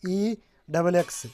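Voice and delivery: slow letter-by-letter dictation; spelling it out. Shown as a demonstration. Tutorial host dictating the app name to viewers, slow and spelled. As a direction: spell each letter slowly so viewers can type it. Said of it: "आपको लिखना है guys".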